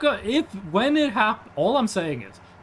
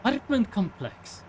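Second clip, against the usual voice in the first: put-on Eastern European accent; 3 semitones higher, 4 dB quieter than usual. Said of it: "caricature of an Eastern European accent".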